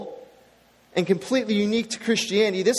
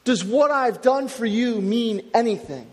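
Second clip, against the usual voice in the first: voicing Peter; 3 semitones higher than usual. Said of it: "He's trying to say".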